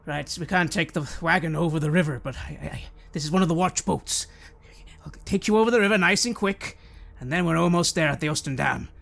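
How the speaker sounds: lightly voiced helpful, eager watchman; McGregor the watchman.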